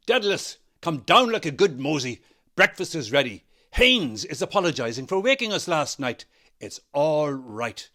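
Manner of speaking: loud, high call down the stairs. A narrator's reading. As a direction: call him down for breakfast cheerfully. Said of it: "calling again".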